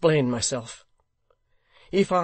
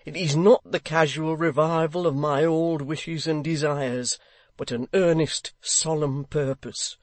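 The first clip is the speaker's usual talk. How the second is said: a man troubled night and day; altered, emotional voice; 2 semitones higher, 5 dB louder than usual. Acted. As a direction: Haredale pouring out his torment. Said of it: "His voice was so altered".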